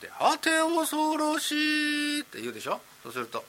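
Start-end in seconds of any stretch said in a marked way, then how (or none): 0.2-2.2 high, drawn-out eerie ghost; slow, high spooky moan. Acted. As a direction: stretch it out slow like a wailing ghost. Ghost voice in rakugo makura.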